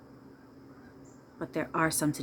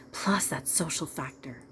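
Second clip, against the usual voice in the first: whispering. Real, not acted. Aside in middle of advice.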